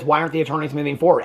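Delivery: fast, flat parroting of her words; mocking echo. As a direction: toss her question straight back, quick and dismissive. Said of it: "he just echoes back to her".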